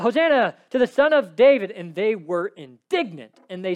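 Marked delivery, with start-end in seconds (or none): 0.0-1.7 put-on children crying out.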